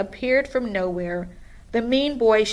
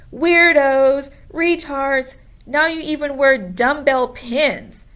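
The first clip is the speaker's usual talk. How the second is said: loud jeering insult; mean taunt; 5 semitones higher, 7 dB louder than usual. A narrator's reading. Mean boy jeering at the junkyard kids, loud. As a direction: sneer it at the kids.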